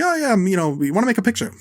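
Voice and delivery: talking like Scorsese. Retold or imitated. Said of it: "He's talking like Scorsese, kind of".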